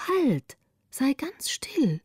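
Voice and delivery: slow, breathy near-whisper; hushed soothing. A narrator's reading. Greta calms the wild little girl on the floor, hushed.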